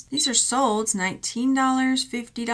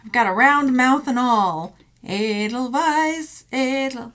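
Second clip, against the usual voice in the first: voicing the mouse; 3 semitones higher, 6 dB louder, slower than usual. Voicing a carefree mouse charm who starts singing. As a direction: belt it like a mouse who doesn't care. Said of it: "this little mouse is like".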